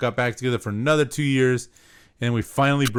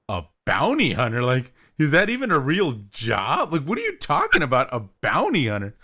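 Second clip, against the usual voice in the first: retold incredulous questioning; mock disbelief, swooping up on the key words; taken aback. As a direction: replay being baffled by an absurd answer. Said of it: "so far taken aback".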